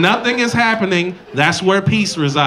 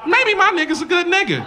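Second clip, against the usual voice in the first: much higher, sweet-voiced imitation; trusting girlfriend; 11 semitones higher than usual. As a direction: play her as naive and hopeful. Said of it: "instead of going".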